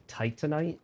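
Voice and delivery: TITANITE said like "titan-ite"; common pronunciation. Retold or imitated. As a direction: stress the first syllable of TITANITE, short middle vowel. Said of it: "everyone's always pronounced it".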